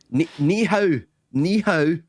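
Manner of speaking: high-pitched Mandarin with a Glaswegian lilt; Glaswegian-accented Mandarin. Shown as a demonstration. Showing his failed Chinese accent, Glaswegian-sounding Mandarin. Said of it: "I sound like some Glaswegian".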